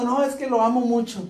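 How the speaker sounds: softly imitated weepy girlfriend; mock tearful. Girlfriend explains her tears to boyfriend, mildly mock tearful. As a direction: lightly imitate crying, quietly. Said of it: "¿Por qué estás llorando?".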